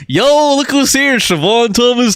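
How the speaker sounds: hammed-up Jamaican accent, slowed down; a jokey, over-the-top fake Jamaican accent; bad Jamaican accent. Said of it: "horrible Jamaican accent I've ever done".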